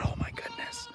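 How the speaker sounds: very high soft coo. Real, not acted. Spotting the cat, a very high soft coo. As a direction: melt at the sight of a cat.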